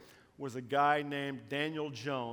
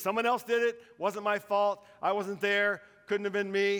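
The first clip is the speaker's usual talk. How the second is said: higher and louder, protesting; insistent denial; 5 semitones higher, 6 dB louder than usual. Retold or imitated. Accused man insisting on innocence, loud and protesting. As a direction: deny it hard, stubbornly. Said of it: "He insisted on his innocence".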